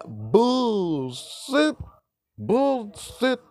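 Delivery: high, drawn-out scoff; exaggerated high-pitched disbelief; high mocking cry. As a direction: call it out in a high, incredulous voice. Scoffing at the author's claim.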